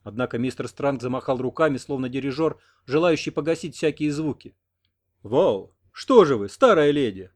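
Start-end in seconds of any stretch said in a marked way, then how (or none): 5.2-7.3 loud fat man. A narrator's reading. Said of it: "вопросил толстозадый".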